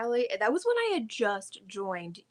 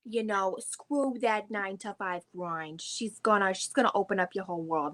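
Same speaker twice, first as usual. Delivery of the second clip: fast mock New Jersey hustle talk; a light New Jersey MLM voice; New Jersey accent. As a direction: rattle it off like a Jersey guru. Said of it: "I can back up Not Vinny".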